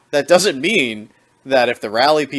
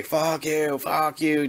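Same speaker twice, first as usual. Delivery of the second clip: mock screeching; 5 semitones higher, 3 dB quieter, slower than usual. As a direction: imitate his screech, softly and higher.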